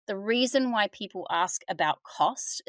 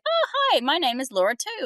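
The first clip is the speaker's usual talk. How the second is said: patient voice; 8 semitones higher than usual. Retold or imitated. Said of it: "And the patient said".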